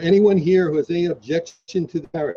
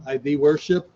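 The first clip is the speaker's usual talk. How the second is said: officiant's lead line. Shown as a demonstration. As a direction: clear vow prompt. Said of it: "please repeat after me".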